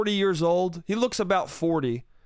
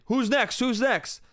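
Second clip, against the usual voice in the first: higher-pitched retold yell, held back in volume; mock screaming; 6 semitones higher than usual. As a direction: imitate a drunk guy demanding his turn. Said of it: "he just starts screaming".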